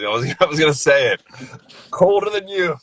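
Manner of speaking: loud, high-pitched laughing exclamation; excited outburst. Real, not acted. Laughing banter over shared joke.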